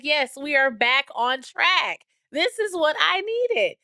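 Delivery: high, slow, emphatic rejoicing; triumphant relief. Retold or imitated. Mom cheering that homework is back on track, retold triumph. Retold celebration of smoother week.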